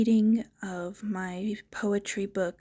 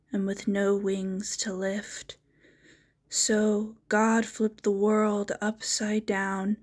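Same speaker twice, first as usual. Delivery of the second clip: measured, storybook-like poem recital; poetry reading. Acted. Poet reading a poem about a space cow to viewers, measured recital. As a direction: read the poem aloud with pauses after each line.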